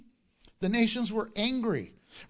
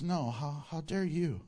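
lower, softer, measured rebuke; God answering back; 4 semitones lower, 5 dB quieter than usual. Acted. God answers the angry world, in a low restrained rebuke. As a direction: turn the challenge back quietly. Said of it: "And God says".

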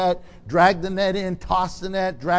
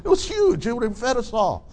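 boastful fishermen; 3 semitones higher than usual. Retold or imitated. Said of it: "they're probably like".

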